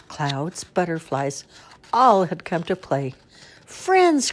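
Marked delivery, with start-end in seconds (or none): 3.6-4.3 much higher, louder joyful bunny cry. Acted. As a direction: cry out in delight as a little bunny. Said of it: "cried Bunny".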